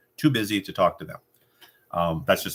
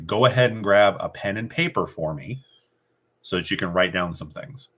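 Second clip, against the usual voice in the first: firm instruction, not a question; command. Shown as a demonstration. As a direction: tell them, don't ask them to grab a pen.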